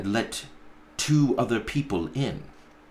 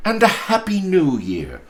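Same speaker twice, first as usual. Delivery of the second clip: put-on higher, earnest young nephew; nephew pleading; 10 semitones higher, 7 dB louder than usual. Nephew begs his uncle to explain, higher and earnest. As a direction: plead gently.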